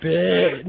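BIT, said for bitch with the ending cut off; mock mispronunciation. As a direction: mockingly say Bit, dropping the final ch. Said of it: "trying to make fun of him".

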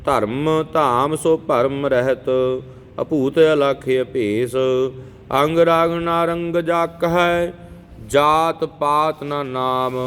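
slow, measured chanting of verses; scripture recitation. Acted. Teacher reciting Jaap Sahib for students, measured chant. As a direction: recite each verse steadily and devoutly.

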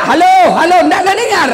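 loud, high yell into a phone; mock shouting. Haji with the handset upside down, comic shouting. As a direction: holler as if nobody can hear.

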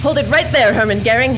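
loud, commanding heroine's challenge; dream-action hero bravado; heroic challenge. Pretend. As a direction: stop the villain cold. Heroine confronts villain.

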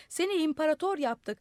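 calling out. A narrator's reading. Crowd telling the madman he is emperor, calling out. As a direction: call the news up to him. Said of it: "diye bağırdılar".

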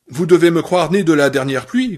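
a touch of a growl. Acted. Annie growling at Paul that she is no fool. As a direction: scold him with contempt. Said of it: "gronda-t-elle".

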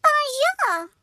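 high, loud yappy "Bonjour!" like a dog; playful French-dog bark; barked greeting. A narrator's reading. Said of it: "they both barked".

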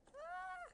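sudden, very high yelp; startled squeal. Real, not acted. Player startled in the game, high squeal. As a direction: let out a high squeal of fright.

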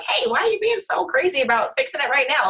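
mock snappy retort. Wife imagining snapping back at husband, mock irritated. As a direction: throw back an irritated accusation. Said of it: "if I was like".

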